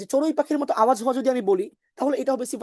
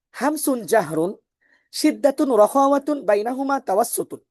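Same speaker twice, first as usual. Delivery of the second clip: tajweed recitation. Shown as a demonstration. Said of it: "আমি কিন্তু জোড়ায় জোড়ায় পড়েছি".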